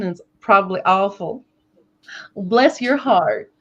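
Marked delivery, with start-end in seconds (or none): 2.4-3.5 slow, drawn-out Southern drawl; Southern accent. Shown as a demonstration. Trying out a probably awful accent, Southern drawl. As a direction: stretch it out in a playful Southern accent. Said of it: "try to do a Southern accent".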